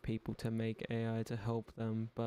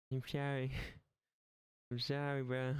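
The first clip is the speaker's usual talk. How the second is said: laughing apology. Real, not acted.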